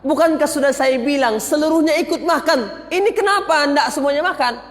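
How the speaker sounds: lightly voiced angry priest; mild anger. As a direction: scold them, moderately heated. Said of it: "Maka pendeta marah".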